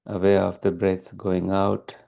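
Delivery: calm, even meditation guidance with long pauses; unhurried, steady meditation teacher delivery; guided meditation. Real, not acted. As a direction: guide listeners gently into stillness, leaving long silences.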